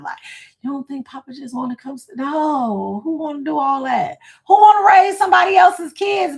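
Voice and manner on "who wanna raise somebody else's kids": higher, louder indignant question; indignant outburst. Real, not acted. Wife arguing with husband about grandkids, indignant. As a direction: fire it back in protest.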